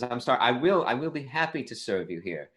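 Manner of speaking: lightly voiced British bartender; British accent. British bartender agreeing to serve puppies, British accent. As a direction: put on a polite British accent. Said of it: "the British bartender says".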